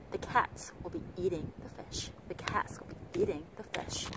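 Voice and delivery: CATS, EATING, FISH stressed, "the" and "will be" rushed; three-beat rhythm. Shown as a demonstration. Teacher repeating the model sentence, reduced function words. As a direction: squeeze small words between three strong beats. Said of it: "xử lý rất là nhanh những từ".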